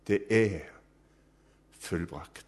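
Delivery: ordinary talk, nothing marked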